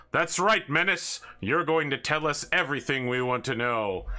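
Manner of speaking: lightly hammed square-jawed hero; heroic comic-book hero. Comic hero interrogates villain.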